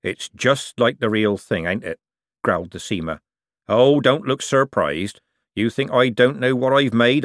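lightly voiced old craftsman, rough and sly; a canny old seamer talking shop; old forger. Old forger lecturing the young buyer, sly.

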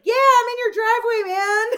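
high laughing squeal. Real, not acted. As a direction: crack up while saying it. Retelling funny moment, laughing.

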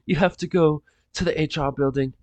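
a touch of a tearful, apologetic guard; lightly voiced guard, sorry and teary; mild choked-up official; crying guard. Guards cry while refusing.

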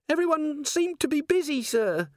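very high, strained squeal; panicked dwarf. A narrator's reading. Dwarf dangling from the candle line, high panicked voice. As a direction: squeak it out, barely holding on.

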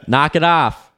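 high, loud scolding call; shouting warning. Real, not acted. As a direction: order her down firmly. Warning Millie climbing up.

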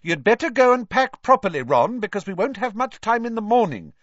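high, loud call down a table. A narrator's reading. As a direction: call out firmly across the room. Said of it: "called down the table".

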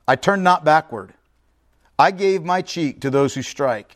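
measured, declaimed Bible reading with pauses between phrases; scripture reading. Acted. Preacher reads Isaiah to the congregation, scripture reading. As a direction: read it out solemnly, phrase by phrase.

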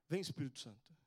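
low-pitched, earnest plea; retold prayer. Man praying over a screaming boy in the street, low earnest prayer. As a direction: re-enact a simple prayer in a low voice. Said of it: "que me veio de orar".

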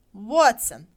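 loud call across the crowd; calling the next name loudly. A narrator's reading. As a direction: shout the name to the square. Calling names at lottery.

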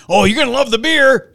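playful imitation of excited friends; mock enthusiastic friends. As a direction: gush like an eager friend. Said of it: "everybody was saying".

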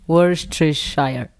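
Worcestershire said slowly and loudly into the mic; slow careful try. Shown as a demonstration. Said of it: "Make sure you go to the mic".

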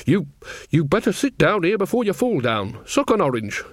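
lightly voiced old witch, halting then fussing; hesitate, then bustle a friend into a seat; relenting Nanny. Nanny relents, tells Granny to sit.

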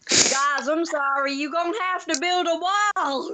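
put-on Texan accent. Friend joining in on the wall plan in a Texan accent. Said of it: "stop with the Texan accent".

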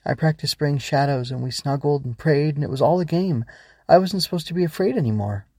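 a hint of a worried child recounting a game; scared little girl. Ava confides in the Growbug, worried. Child character speaks in a story.

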